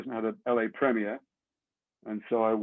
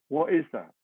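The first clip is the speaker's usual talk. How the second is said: high, bewildered squeak of a question; mock baffled; 8 semitones higher, 4 dB louder, slower than usual. Woken at night by the agents, baffled and high-pitched. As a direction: play dumb, totally lost.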